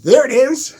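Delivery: high, loud, laughing triumph; delighted coach. Retold or imitated. Vocal coach hears his new baritone, laughing delight. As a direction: crow with joy at the breakthrough. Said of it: "she goes".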